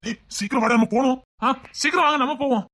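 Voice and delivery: impatient call, voice lifted; hurrying them along. Acted. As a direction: call out for everyone to come quickly. Calling others to hurry and leave.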